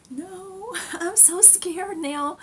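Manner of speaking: high, slow, laughing frightened whimper; half-laughing, play up the fear; mock scared. Patient telling the orderly she is scared, high slow laughing whimper. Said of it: "And I said".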